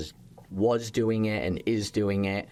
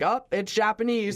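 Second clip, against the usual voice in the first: imitating a diner; 13 semitones higher than usual. Guests tasting sesame oil dish, high mock surprise. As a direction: squeak it like a fooled customer. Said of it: "people are still gonna be like".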